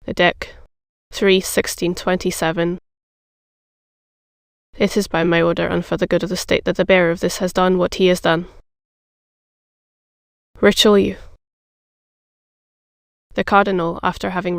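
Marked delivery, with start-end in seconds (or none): 0.0-11.2 a touch slower, dwelling lightly on each syllable; slow, deliberate reading. A narrator's reading. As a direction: read it out slowly, weighing every syllable. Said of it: "read in a slow voice, dwelling upon every syllable".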